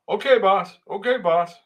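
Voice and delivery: a hint of a timid yes-man; meek Rufus voice. Rufus meekly agreeing with boss.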